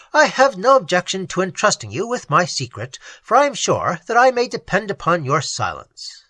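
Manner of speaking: lightly voiced courteous nobleman; a hint of a trusting friend; confiding nobleman. Raymond confides.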